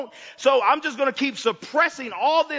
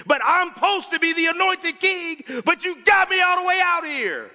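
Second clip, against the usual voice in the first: David's lament. Retold or imitated. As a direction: plead with God, building to a raw complaint. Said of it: "went to the Father and said".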